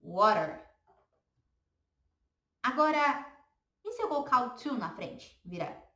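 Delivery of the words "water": "Water" said wah-ter, tapped r, falling; English "water". Shown as a demonstration. Teacher models Water before students repeat. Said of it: "Repete aí".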